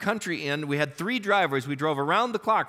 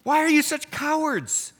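loud rebuke; 8 semitones higher, 6 dB louder than usual. Acted. Jesus rebukes the disciples.

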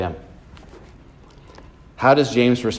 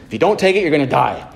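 lightly imitated blunt South African doctor; South African accent; 3 semitones higher, faster than usual. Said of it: "in a South African accent".

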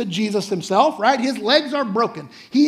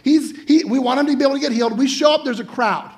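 eager friends; 4 semitones higher, 3 dB louder than usual. Pretend. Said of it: "these guys are like".

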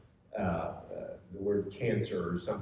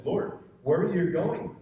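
urgent question; 7 semitones higher, 5 dB louder than usual. Acted. Peter questioning Jesus at supper.

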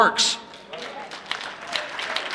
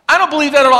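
louder and higher, stressing don't; emphatic repeat; 5 semitones higher, 7 dB louder, much faster than usual. Shown as a demonstration. Preacher repeating the line louder to the congregation. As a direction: hit don't hard the second time. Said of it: "repeated louder".

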